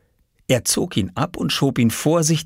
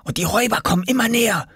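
put-on higher-pitched, mildly cross boy; annoyed; 7 semitones higher, faster than usual. A narrator's reading. Oskar to his companion about approaching robbers, annoyed. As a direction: complain crossly, speeding up toward the end. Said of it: "zischte er ärgerlich".

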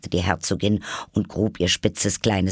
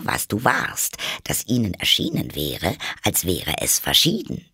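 lightly voiced duchess, pontificating; moralizing duchess; 3 semitones lower than usual. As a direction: spin out a muddled maxim as a duchess. (leicht gespielte, belehrende Herzogin)

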